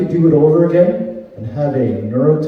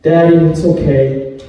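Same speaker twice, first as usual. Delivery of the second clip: slow reassuring; slower than usual. Retold or imitated. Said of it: "He went".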